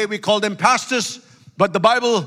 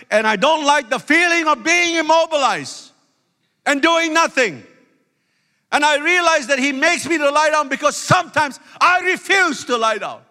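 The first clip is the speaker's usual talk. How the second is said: raised, higher-pitched sermon delivery; impassioned preaching; 6 semitones higher than usual. Real, not acted. Preacher confessing restlessness to the congregation, impassioned. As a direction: preach it high and insistent.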